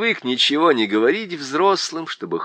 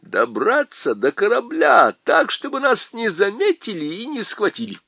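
higher, louder worried faun; 9 semitones higher, 4 dB louder than usual. A narrator's reading. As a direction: fret about getting to the ship. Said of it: "сказал он".

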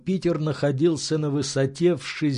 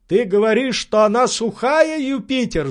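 high, louder, faltering cry; breaking voice; 9 semitones higher, 4 dB louder than usual. Acted. Legrand shouting up to his servant, voice faltering. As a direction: let the voice crack with alarm. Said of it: "прерывающимся голосом".

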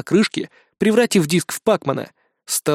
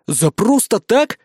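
indignant; 5 semitones higher, slower than usual. A narrator's reading. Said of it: "возмутился я".

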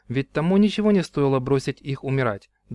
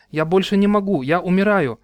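high, louder pleading cry; desperate cry; 5 semitones higher, 5 dB louder than usual. Acted. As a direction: beg like you're going under. Drowning brother begs for rescue.

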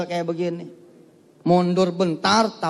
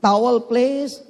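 slow, stretched, higher call from the bathroom; 5 semitones higher, much slower than usual. Retold or imitated. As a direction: call for a towel through the door. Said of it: "Dari dalam dia ngomong". (memanggil dari kamar mandi)

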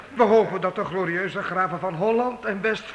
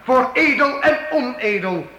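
rousing toast; 4 semitones higher than usual. Acted. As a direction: lift the hall with praise. Minstrel proclaims praise of count. (jubelende heildronk op de graaf)

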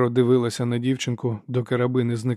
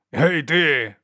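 sharp call, higher and louder; shout; 4 semitones higher, 5 dB louder than usual. A narrator's reading. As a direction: call out to stop him. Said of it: "вигукнув солдат".

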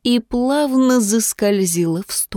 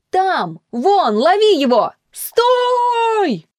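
chase shouting; 11 semitones higher, much slower than usual. A narrator's reading. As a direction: yell after the runaway. Chasers shout at fleeing boy.

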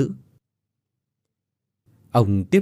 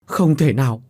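a touch louder, half-voiced denial; rising disbelief; 3 semitones higher, 3 dB louder than usual. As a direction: start to refuse the news. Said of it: "hét lên". (ông Tứ bắt đầu chối bỏ, hơi to)

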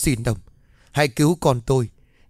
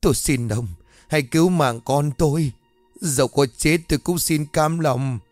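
higher, desperate begging; kowtowing plea; 3 semitones higher than usual. Acted. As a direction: plead as if bowing to the ground. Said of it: "liền dập đầu".

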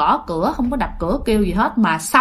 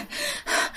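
soft, voiceless puff of breath; quiet imitated panting; 13 dB quieter than usual. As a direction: act out catching your breath after running. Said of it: "thở hả".

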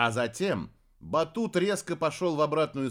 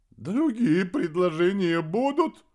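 sarcastic; 6 semitones higher, 6 dB louder than usual. A narrator's reading. Ironic rebuttal.

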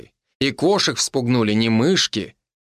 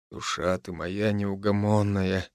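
much softer, slow husband's murmur; soft, slow tender husband murmur; tender whisper; 3 semitones lower, 6 dB quieter than usual. Acted. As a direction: hush it close to her hair, slowly. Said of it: "шепнул".

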